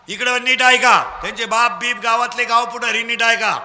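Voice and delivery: loud, commanding call to the crowd; full-force preaching. Real, not acted. Preacher scolding children to sit straight, full-force preaching.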